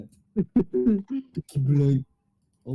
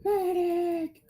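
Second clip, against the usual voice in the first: man down shout; much slower than usual. Real, not acted. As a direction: shout across the battlefield for help. Calling for a medic in game.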